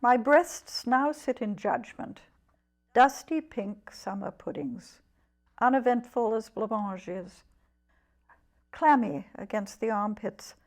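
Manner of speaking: deliberate poetry recital with long pauses; poem reading. Acted. Poet reads her Mothers-in-law poem to the interviewer, deliberate recital. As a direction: announce the title, then give each image room.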